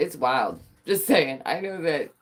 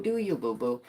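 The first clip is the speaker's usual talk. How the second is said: low sassy; 5 semitones lower, 4 dB quieter than usual. Shown as a demonstration. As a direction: Do you, boo-boo. dropped low and soft.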